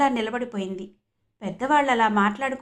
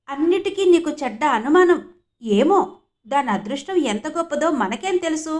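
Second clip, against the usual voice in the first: retorting husband; 4 semitones higher, 5 dB louder than usual. Acted.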